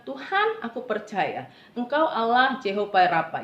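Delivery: imploring call that eases into declaration; calling on God. Retold or imitated. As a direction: cry out to God in retold prayer. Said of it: "menyeru kepada Tuhan".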